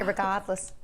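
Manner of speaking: irregardless in a Boston accent, dropped R. Shown as a demonstration. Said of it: "I like to say it with a Boston accent".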